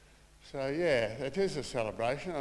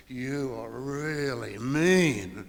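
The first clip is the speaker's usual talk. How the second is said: slow, drawn-out laughing jab; mock-scolding, laughing; laughing tease; 5 dB louder, much slower than usual. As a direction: tease her slowly through a laugh. Woman teasing Mum, retold.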